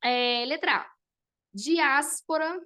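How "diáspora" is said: slow syllable split. Shown as a demonstration. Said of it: "a separação de diáspora".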